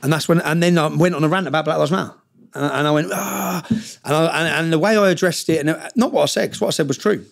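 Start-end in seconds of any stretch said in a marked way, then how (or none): 3.1-3.7 imitated venting cry. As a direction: act out letting it all out, held back in volume. Acting out his rant's outburst.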